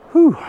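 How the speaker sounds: high, loud breathless puff; winded whew. Real, not acted. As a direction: blow out a tired whew. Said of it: "I'm plumb out of breath".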